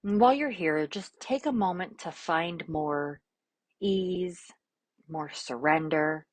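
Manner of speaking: calm, unhurried instructions with long silences; guided meditation. Real, not acted. Yoga teacher offering an affirmation and easing class into poses, calm guided meditation.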